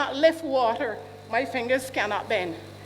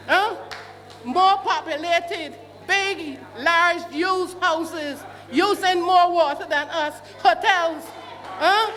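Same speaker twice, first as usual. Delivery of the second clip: indignant outburst; 4 semitones higher than usual. Real, not acted. Resident protesting water shortage to the panel, angry raised voice. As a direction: hammer home the unfairness, voice raised.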